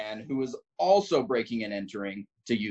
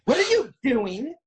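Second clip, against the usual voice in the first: snapping; 13 semitones higher than usual. Acted. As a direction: snap at him, indignant. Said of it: "I snap at him".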